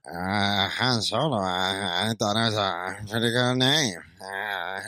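low, quiet mumbling character voice; Adam Sandler. Acted. Showing the actor's other voice, low and mumbly. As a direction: mumble it low with dragged-out uhs. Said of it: "that's the other sound of voice he does".

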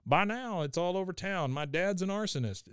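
a hint of a mortified son; Hank. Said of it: "Hank now says".

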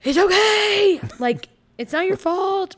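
fake-soothing the kid through gritted teeth; forced calm reassurance. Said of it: "I'm like".

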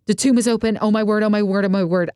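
high, breathless oh my word, retold; playing the stunned disciple discovering the open tomb; gasping amazement. Mary finding the tomb open, gasping in amazement. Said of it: "And you're like".

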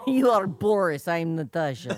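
hammed-up Russian accent; cartoon Russian spy seductress; Natasha. Co-host casting the pair as spies, mock Russian accent. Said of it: "That's not a bad accent".

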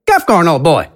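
high theatrical villain, smug; a smug, high showman announcing. Acted. AJ threatens, character voice.

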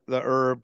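"herb" without the H, as "erb"; silent H in herb. Real, not acted. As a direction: drop the H on "herb". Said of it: "Now I can't say herb right".

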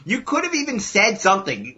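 high-pitched exasperation without extra volume; retold livid wife. Friend voicing the wife's warning, mildly livid. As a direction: imitate an exasperated wife, high and quick at first. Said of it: "She was so livid".

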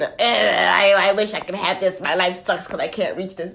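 low, half-hearted mock whine, strained; mock whining. Speaker mimics someone who won't get up, mock whining. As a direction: whine feebly as a helpless wisher.

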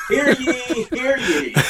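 lightly voiced town crier call, laughing. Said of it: "the town crier kind of guy".

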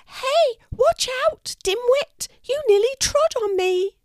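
tiny, very high mouse squeak, cross; a cross little mouse underfoot; squeaky little mouse. A narrator's reading. Mouse nearly stepped on, squeaky and cross. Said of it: "says a little squeaky voice".

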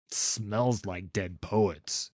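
very slow, dry sniffing remark; wry actor. A narrator's reading. Actor sniffing the old trunk, slow and wry. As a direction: drawl it with disgust.

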